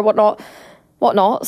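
accidentally posh pronunciation; a touch of posh in the vowels; posh accent. Real, not acted. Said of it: "Sorry, that was really posh".

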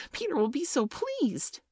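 small, very high squeal; fairy screech. A narrator's reading. Tinker Bell egging Toodles on to shoot, high screech. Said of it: "she screamed".

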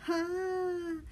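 put-on long high loud child's wail; a frightened wail; little brother wailing while dangling; wailing cry. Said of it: "Teddy was wailing at the top of his loud".

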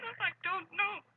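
high, loud, slow anguished denial; pleading that she can't remember; distraught cry. Acted. Woman distraught under questioning.

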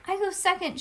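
put-on high, loud kid's claim; hollering. A narrator's reading. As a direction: holler it quickly to get your turn. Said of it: "she hollered".

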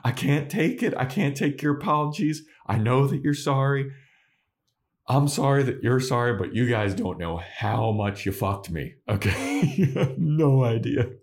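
high, strained, near-tearful complaint; overwhelmed Buffy. Retold or imitated. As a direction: push it out like she's breaking. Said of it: "And Buffy's like".

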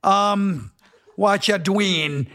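warming up a put-on Jamaican accent; tentative Jamaican accent. Shown as a demonstration. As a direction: try out a Jamaican lilt. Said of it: "I want a damn Jamaican accent".

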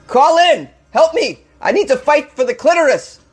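hammed-up begging for calls; mock desperate plea.

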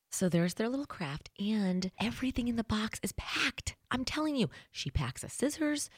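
ordinary talk, nothing marked

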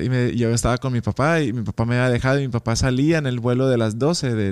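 ordinary talk, nothing marked

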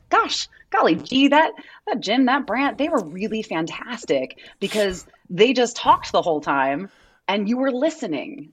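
lightly voiced gee-whiz fifties kid; a hint of a cheery Happy Days kid; wholesome 1950s kid. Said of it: "conversations apparently happened in Happy Days".

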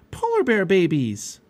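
high, loud, drawn-out squeal of delight; excited cry. A narrator's reading. Girl spots two cubs playing, excited cry. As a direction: cry out in slow-stretched wonder. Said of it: "cried Annie".

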